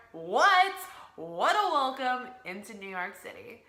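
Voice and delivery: excited exclaim. Real, not acted. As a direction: shout it like you can't believe your luck. Thrilled about Times Square arrival.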